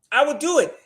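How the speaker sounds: high Chris Tucker squeal on do; Chris Tucker impression. Host doing Chris Tucker to the audience, high squeal. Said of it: "Sound like Chris Tucker".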